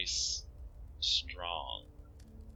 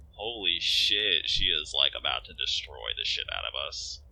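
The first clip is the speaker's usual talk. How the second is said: alarmed player; 2 semitones lower, 3 dB louder than usual. Real, not acted.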